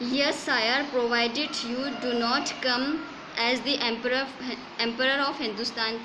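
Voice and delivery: slow, measured textbook reading; story read-aloud. A narrator's reading. Teacher reads English story to students, slow measured read-aloud. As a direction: read it out phrase by phrase.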